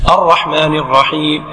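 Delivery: slow, low recitation; imam's lengthened lead line; imam reciting. Shown as a demonstration. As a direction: draw out the verse as the imam. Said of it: "يتابع إمامه".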